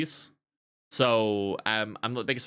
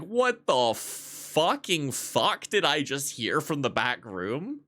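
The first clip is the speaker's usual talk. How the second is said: slow, drawn-out stunned disbelief; mock outraged disbelief; 4 semitones higher, slower than usual. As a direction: act baffled at what you just heard. Barista reacts to insult.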